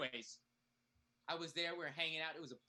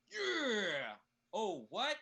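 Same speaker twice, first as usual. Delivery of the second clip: sudden loud outburst; 5 semitones higher, 6 dB louder, much slower than usual. Acted.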